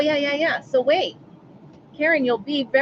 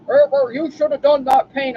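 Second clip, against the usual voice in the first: loud mock grumbling nag; cranky brother; 2 semitones higher, 5 dB louder than usual. Cranky brother nagging about paint, loud mock grumble. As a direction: imitate a curmudgeon grumbling a complaint. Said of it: "he's a curmudgeon".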